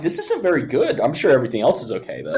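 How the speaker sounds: high-pitched doubt turning to hurried optimism; retold self-reassurance. Friend retelling a disappointing first song, trying to stay hopeful. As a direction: talk yourself into it, starting high.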